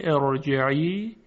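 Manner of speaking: ارجعی with a thick, full r; heavy r. Shown as a demonstration. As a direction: keep the r in ارجعی heavy, not thinned. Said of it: "اما ترقیق نمیشه".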